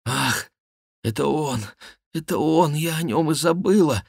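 high, voiced gasp of dismay; startled and distressed; whispered alarm. A narrator's reading. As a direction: say it high, suddenly remembering with dread. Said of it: "прошептала Диана".

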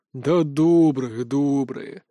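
slow, amused reassurance; laughing it off gently; chuckling. Acted. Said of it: "усмехнулась лошадка".

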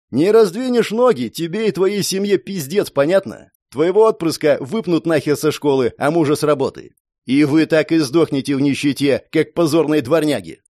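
rough, forceful bullying; menacing threat. Acted. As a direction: press her with a touch of anger. Thug threatens a cornered woman. (угрожающе, с напором)

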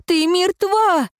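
piercing shout. Acted. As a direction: force her to see the truth. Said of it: "закричала девчонка".

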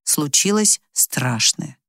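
usual speaking voice

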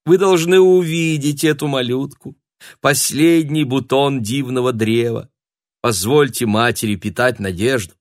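high, loud pleading appeal; tragic heroine sorrow. Acted. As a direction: beg like a suffering mother. Signora pleads for blessing.

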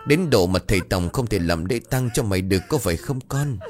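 mother's lament with a touch of sobbing; mildly voiced grief over her son; wailing mother. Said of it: "gào khóc". (tiếng than khóc nhẹ của người mẹ)

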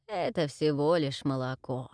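put-on low, slow gurgling old witch. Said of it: "забулькала, смеясь, ведьма". (булькающий голос ведьмы)

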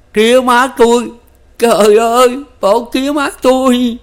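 high, loud, breaking cry for his parents; tiếng kêu đau đớn; anguished cry. A narrator's reading. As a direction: wail it as the news sinks in. Son hears his parents died.

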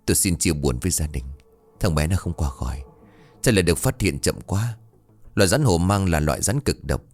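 somber condolence. Acted. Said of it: "bà Hai thở dài quay sang".

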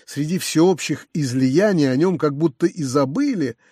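usual speaking voice

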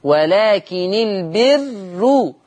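ولكن joined to البر with a kasra on the نون, read "welakin ilberru"; Warsh joined reading. Shown as a demonstration. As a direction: recite "ولكن البر" slowly, linking through a kasra نون. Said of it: "يكسر النون".

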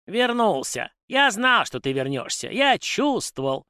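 very high squeaky excited squeal; squealing house spirit. A narrator's reading. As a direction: squeal with joy like a domovoi. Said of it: "верещал он". (визгливый домовой)

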